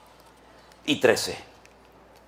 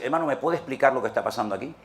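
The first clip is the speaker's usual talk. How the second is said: quick, softer polite question; polite inquirer; 3 semitones lower, 4 dB quieter, faster than usual. Pretend. A curious believer quickly asking the brother for an explanation. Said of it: "en vez de preguntar y decir".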